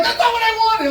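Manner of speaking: high mock woman's voice; hammed-up high voice of the unimpressed girlfriend; complaining woman. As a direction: play the disappointed girlfriend. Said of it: "She's like".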